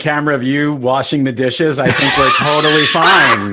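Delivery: loud, laughing jab at his friend; laughing tease. Real, not acted. Co-host teasing Evan about the dishes, laughing loudly. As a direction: laugh through the teasing line.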